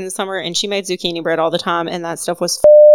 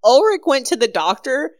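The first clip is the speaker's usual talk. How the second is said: laughing quote; 6 semitones higher than usual. Retold or imitated. Beck telling the news while the storyteller laughs, laughing. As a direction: blurt it out through laughter. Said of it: "Beck's like".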